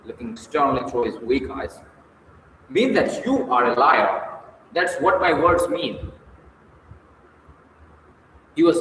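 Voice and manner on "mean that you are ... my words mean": hot anger. Acted. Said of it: "Levzhenkov hotly".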